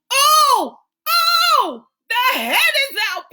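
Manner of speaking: high, fast excited scream. Acted. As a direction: shriek it out. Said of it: "Pandora screamed".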